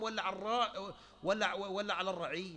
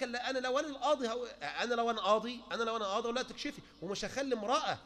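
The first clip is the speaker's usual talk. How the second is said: mock stubborn sheikh; 3 semitones higher, faster than usual. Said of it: "والتاني يقول لك".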